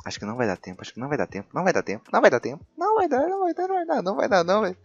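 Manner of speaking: hushed worry climbing to high panic; rising panic. Real, not acted. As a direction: build from muttering to squealing. Dinosaur about to catch him.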